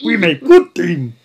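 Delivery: slow, loud broken-English boast; Russian accent. Pretend. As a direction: boom it out like a proud Russian heavy. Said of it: "continues heavy voice".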